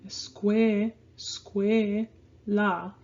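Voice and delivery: slow "escuela" with cue drawn out; stretched-out demo of "escuela", stressing cue; emphasis on CUE. Shown as a demonstration. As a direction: dwell on CUE in "escuela", then a separate la. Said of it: "more of an emphasis on the sque part".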